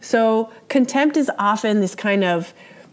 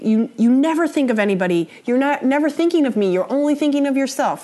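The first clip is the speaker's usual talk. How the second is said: fast, raised, accusing rant; accusing criticism; 5 semitones higher, faster than usual. Shown as a demonstration. Teacher acting out a partner's criticism, fast and accusing. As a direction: hurl the blame at your partner.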